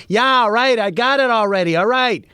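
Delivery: high-pitched, fed-up snap back; exasperated retort. Acted. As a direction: talk back to a nagging machine, worked up. Snapping back at the microwave.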